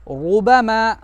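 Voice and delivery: रुबमा with a full, heavy R and drawn vowels; thick heavy R. Shown as a demonstration. Teacher modelling the example for pupils, thick R. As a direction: say रुबमा slowly, thickening the opening R. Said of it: "पढ़ना है मोटा करके".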